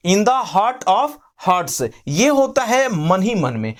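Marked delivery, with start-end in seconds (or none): 0.1-1.9 slow, deliberate phrase; slow teaching model. Shown as a demonstration. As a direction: give the phrase slowly to the class. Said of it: "तो मन ही मन में बोलते हैं". (धीरे-धीरे "in the heart of hearts")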